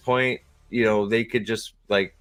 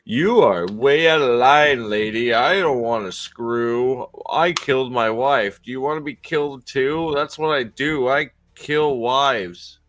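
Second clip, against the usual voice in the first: slow, heavily stretched mock threat; drawn-out tough-guy parody; mock stern refusal; slower than usual. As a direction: lay down the law, hammed up and slow. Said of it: "he's gonna be like".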